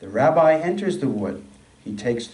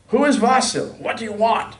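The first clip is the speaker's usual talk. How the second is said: put-on suspicious old woman; 10 semitones higher, 3 dB louder than usual. A narrator's reading. Widow questions unknown caller.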